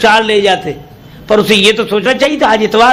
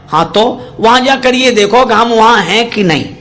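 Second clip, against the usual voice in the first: chuckling through the punchline; amused, laughing delivery; 3 semitones higher than usual. Real, not acted. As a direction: laugh while telling it.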